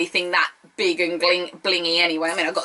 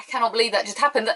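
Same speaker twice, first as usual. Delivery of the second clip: laughing disbelief; faster than usual. Real, not acted. Reacting to the announcement.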